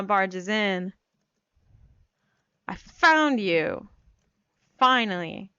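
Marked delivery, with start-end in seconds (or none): 2.7-5.5 declaring. Acted. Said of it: "she declares".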